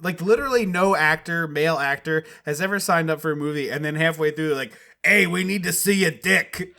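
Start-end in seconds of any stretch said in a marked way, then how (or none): 5.0-6.7 higher, brash mock-director demand; crass director. Parody director to a male actor, crass and pushy. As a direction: call it out like a pushy filmmaker.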